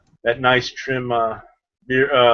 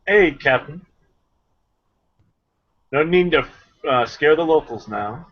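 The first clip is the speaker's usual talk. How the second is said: smooth first mate; 3 semitones higher than usual. Acted. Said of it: "Dom will then, um, turn around".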